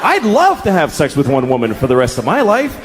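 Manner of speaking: normal talking voice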